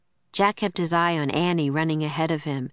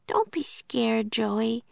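higher, slow reassurance; gentle soothing; 6 semitones higher, slower than usual. A narrator's reading. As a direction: reassure a shy baby animal, unhurried. Annie soothing the shy joey.

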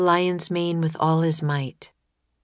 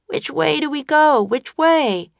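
raised, loud questioning call; Jack calling out; 10 semitones higher, 5 dB louder than usual. A narrator's reading. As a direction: call the question out urgently, pitched up. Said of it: "Jack called out".

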